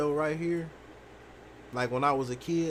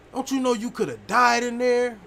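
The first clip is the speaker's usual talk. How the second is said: higher, louder scolding from a scared father; dad yelling; 8 semitones higher, 6 dB louder than usual. Retold or imitated. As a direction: yell it like a father who almost lost his son. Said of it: "he was like".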